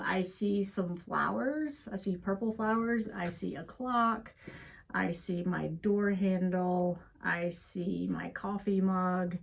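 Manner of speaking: slow, calm listing of things seen; name each thing slowly and gently; calm grounding exercise. Shown as a demonstration. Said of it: "I'm gonna do mine out loud".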